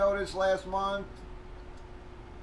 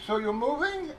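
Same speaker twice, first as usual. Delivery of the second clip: lightly voiced landlady, higher and surprised; a hint of the landlady asking, pitched up; mock landlord voice; 8 semitones higher than usual. Mimics landlord in retold argument.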